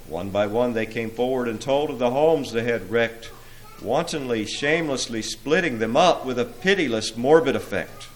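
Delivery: measured theatrical verse narration; dramatic poem recitation. A narrator's reading. Preacher tells of demons reporting, dramatic recitation. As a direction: lean on the rhythm of the verse.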